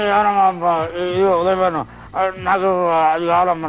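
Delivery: a hint of an aging actor, slow and slurred; Satyanarayana, older now. Mimic shows the actor grown old, slurring slowly. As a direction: drag the words, with the clarity gone. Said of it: "ఇప్పుడేమో ఆ clarity పోయింది".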